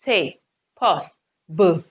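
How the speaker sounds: "te", pause, "bu", each syllable standing alone; split syllables. Shown as a demonstration. Teacher showing students where the pause falls, split syllables. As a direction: say "te", stop, then a short "bu". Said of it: "Another pause".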